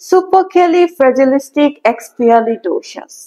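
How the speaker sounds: slow model pronunciation of Supercalifragilisticexpialidocious; slow careful model word. Shown as a demonstration. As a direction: say it slowly, syllable by syllable. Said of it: "এই ওয়ার্ডটা কি শুনেছেন?".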